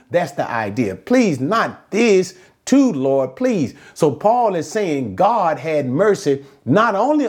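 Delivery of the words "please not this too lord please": slow, higher acted plea, falling at the end; imagined prayer of dismay; pleading. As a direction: beg slowly, stretching the words. Repeats Paul's imagined plea to God.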